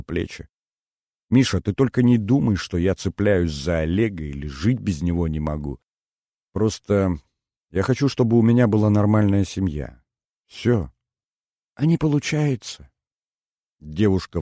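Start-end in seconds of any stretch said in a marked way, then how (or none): 1.3-12.9 на грани всхлипа, чуть выше; оправдывается, почти плача; голос Инны со слезами в голосе. Acted. Инна оправдывается перед Мишей. (Инна оправдывается перед Мишей, сдерживая слёзы)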